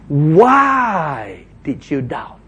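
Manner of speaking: gentle question. Acted. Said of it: "he says".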